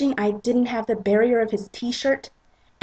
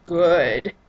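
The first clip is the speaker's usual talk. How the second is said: satisfied Christian; 3 semitones lower, 5 dB louder than usual. Acted. Christian approves.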